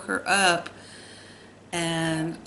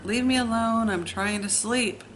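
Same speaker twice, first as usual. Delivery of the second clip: mild mock yell, higher on the first words; retold yell; 4 semitones higher than usual. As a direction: snap back at your sister to leave you alone. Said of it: "I would scream to her".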